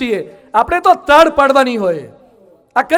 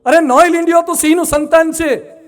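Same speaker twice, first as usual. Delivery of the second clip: lion scolding; 3 semitones higher, 4 dB louder than usual. Acted.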